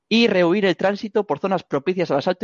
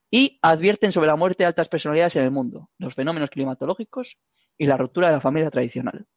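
reading the news. Shown as a demonstration. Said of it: "os lo estoy leyendo".

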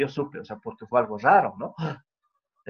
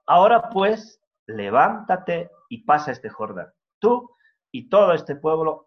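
commanding call; 3 semitones higher, 5 dB louder than usual. Acted. Preacher voices God's command.

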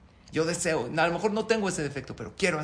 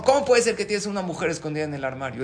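louder, faster jealous demand; jealous accusation; 3 semitones higher, 6 dB louder, faster than usual. Acted. Wife confronts husband about the woman in the wardrobe, loud and fast. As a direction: fire the question at him.

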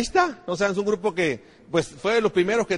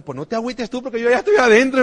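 firm retort; 4 semitones higher, 4 dB louder than usual. Retold or imitated. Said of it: "hasta que dije".

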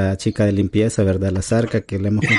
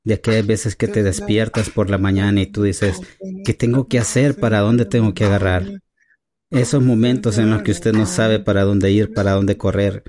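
mock preacher. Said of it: "culto de avivamiento".

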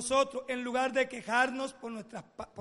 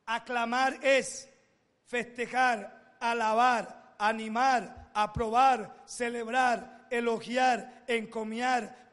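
slow emphatic list; 4 dB louder, much slower than usual. Shown as a demonstration.

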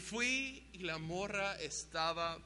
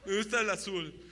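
put-on stumbling girl; 10 semitones higher than usual. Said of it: "se trababa media frase".

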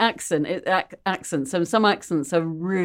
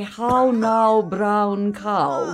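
rounded, posh English vowels; exaggerated posh English elocution; super posh English; 3 semitones higher, much slower than usual. Shown as a demonstration. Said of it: "super posh English".

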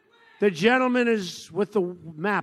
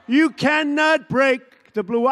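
slow mocking quote; 5 semitones higher, 4 dB louder than usual. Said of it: "I've been hearing this".

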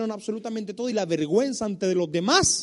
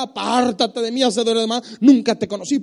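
stern Lord; 6 dB louder than usual. Retold or imitated. Preacher voicing the Lord rejecting complainers, stern.

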